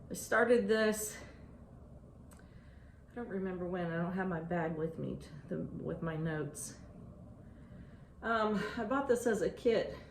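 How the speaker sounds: breathless from running stairs; winded, catching breath between words. Real, not acted. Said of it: "Sorry, I'm out of breath".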